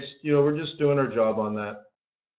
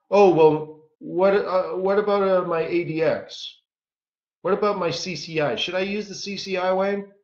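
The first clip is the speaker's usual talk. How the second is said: lightly voiced hesitant student, pitched higher; imitating a dithering questioner; mock student questioning; 4 semitones higher than usual. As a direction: stammer it out like an unsure pupil. Voicing a fretful student's questions.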